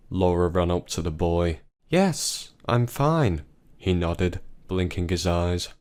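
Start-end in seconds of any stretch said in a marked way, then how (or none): 1.9-3.4 put-on high, light young boy; a little kid brushing it off; boy's voice. Boy reassures Laura, high child's voice.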